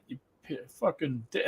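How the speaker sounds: soft, under-the-breath swearing; muttered insult. Retold or imitated. Seller curses at a passerby, muttered under his breath. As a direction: grumble it half to yourself. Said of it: "said something under his breath".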